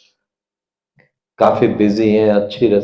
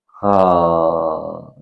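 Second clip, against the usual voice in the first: choked up; 7 semitones lower, 4 dB quieter, much slower than usual. Real, not acted. Emotional pause in sermon.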